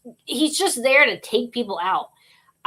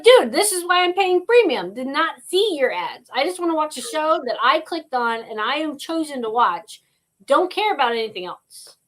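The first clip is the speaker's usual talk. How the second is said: exasperated complaint; 5 semitones higher than usual. Retold or imitated. Acted annoyed complaint at streaming service.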